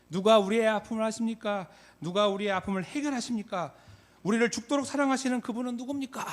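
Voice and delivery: high, loud, mounting string of questions; preacher's rally questions. Retold or imitated. Late pastor pressing the youth with questions, impassioned call. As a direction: fire impassioned questions at a huge crowd. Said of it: "이렇게 물어봅니다".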